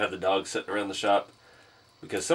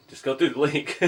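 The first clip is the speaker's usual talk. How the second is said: laughing; 4 semitones higher than usual. Real, not acted. Laughs at own pitch.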